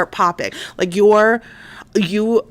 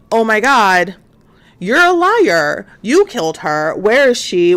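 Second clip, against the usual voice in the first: raised, emphatic mock accusation; accusing cop; 3 semitones higher, 4 dB louder than usual. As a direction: act out a cop confronting a suspect. Cops accuse him in retelling.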